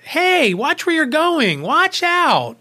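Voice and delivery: high, loud mock yell at a passerby; imitating an angry yell. Lady in the station scolding the blind narrator, high loud yell. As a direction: play the stranger who barks at you to watch it. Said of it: "this lady starts yelling at me".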